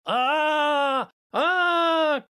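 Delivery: high ragged yell of pain; loud yelling. A narrator's reading. Drunk man howling on the dirty floor, yelling. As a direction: howl like he's being cut. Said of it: "и громко заорал".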